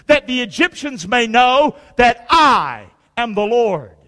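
slow, weighty Bible reading; scripture reading. Acted. Preacher reading Exodus to his church, measured and solemn. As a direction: read the Word with weight.

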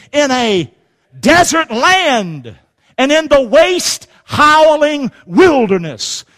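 high, ringing preacher's recitation; declamatory Bible reading from the pulpit; scripture reading. Real, not acted. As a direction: proclaim each verse with punched key words. Reads scripture aloud forcefully.

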